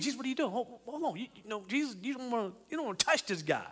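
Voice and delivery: a disciple tugging Jesus back, softly pleading; hushed urgent warning. Pretend. Disciple to Jesus, hushed worried plea.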